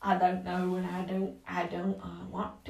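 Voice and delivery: lightly hammed American accent; mock American accent. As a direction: mumble it as a put-on American. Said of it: "some sort of American".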